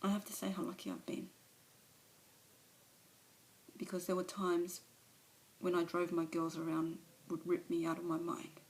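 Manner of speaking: an alcoholic owning up, subdued; Alice's confession. Acted. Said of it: "a monologue from one of, of her movies".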